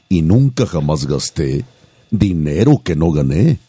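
reciting a verse. Shown as a demonstration. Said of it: "decirles un versito".

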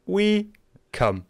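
high, hammed-up movie hero; Mario line. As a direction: say it like a cheesy hero. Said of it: "wo der sagt".

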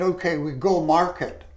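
quoting Evelyn in light Jamaican patois; a touch of Jamaican patois, retold. Evelyn inviting him to market, light Jamaican patois. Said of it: "in the patois".

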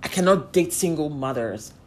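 mocking her date. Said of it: "He then goes like".

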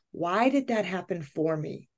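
softly wondering to herself; quiet self-questioning. Retold or imitated. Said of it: "And I thought".

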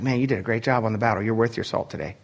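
a hint of a gruff officer; praising Roman soldier. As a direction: pat a soldier on the back. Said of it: "It's saying, like".

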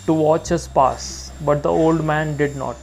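measured, slightly lifted reading voice; poem reading. A narrator's reading. Reader sharing a favourite poem with listeners, measured reading. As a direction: read the poem steadily, savouring the lines. Reads Jeffers poem aloud.

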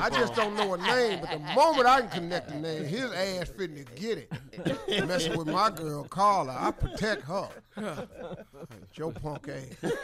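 laughing mock tough talk; half-joking threat, chuckling. Real, not acted.

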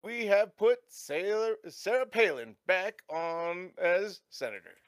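slow, announcing news voice; radio news read. Acted. Radio announcer reading the news to the travellers in a slow, formal read. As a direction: read it like a breaking news bulletin.

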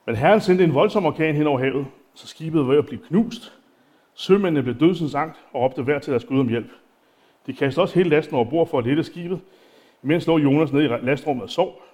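unhurried reading of the text; Bible reading. Acted. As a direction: read the passage out to the congregation. Continues reading the Bible passage.

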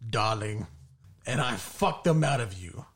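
slow mock-romantic letter reading. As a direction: read it slowly like a love letter, lightly hammed-up. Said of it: "I'm gonna try to do it in a romantic voice".

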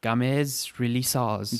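drawn-out fake French pronunciation; mock French. Podcaster showing co-host a segment title, mock French. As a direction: say it slowly as if it were French. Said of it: "That's how you say it in French".

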